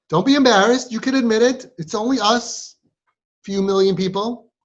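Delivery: high, loud teasing encouragement; playful coaxing. Real, not acted. Coaxing silent girls to confess.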